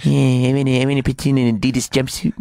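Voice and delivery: quick put-on mock voice; impression of a pop singer. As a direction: play it as a comic impersonation, running words together.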